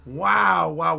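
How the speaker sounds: real awestruck hype; excited shouting. Real, not acted. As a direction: yell it like a fan losing it over the reveal. Thrilled reaction to trailer.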